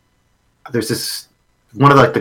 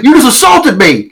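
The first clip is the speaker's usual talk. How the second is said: much higher, louder and slower, a hammed-up whine; mocking whiny victim; 13 semitones higher, 5 dB louder than usual. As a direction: mimic a pathetic Proud Boy crying foul. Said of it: "And he's like".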